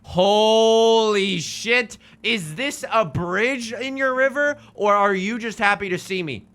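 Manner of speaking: over-the-top mock seduction; hammed-up pickup line. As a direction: ham up the cheesy come-on to the bridge.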